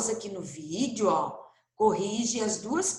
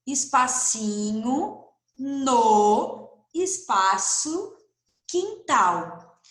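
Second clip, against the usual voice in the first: slow word by word; much slower than usual. Shown as a demonstration. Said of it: "pinta um espacinho".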